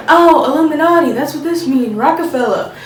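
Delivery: lightly voiced, badly faked rapper; a hint of a rapper impersonation; mock rapper. Vlogger showing what you could say in videos, mock rapper. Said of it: "Is that your impersonation of a rapper?".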